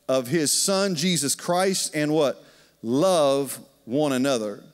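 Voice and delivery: slow, deliberate scripture reading. Acted. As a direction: lay out each word of the verse. Reads scripture.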